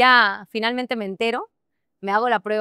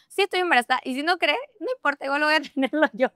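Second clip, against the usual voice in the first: mock angry retort; 6 semitones higher, faster than usual. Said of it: "Bien enojada estaba".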